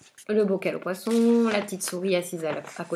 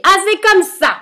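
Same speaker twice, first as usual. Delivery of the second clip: howling witch; 9 dB louder than usual. Acted. Witch howling as she gives up the frog, very loud. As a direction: scream it at him in fury. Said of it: "la sorcière se met à hurler".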